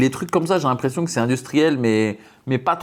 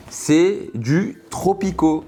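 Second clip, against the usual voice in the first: announcer voice; 6 semitones higher, much slower than usual. Pretend. Announcing the product, drawn out.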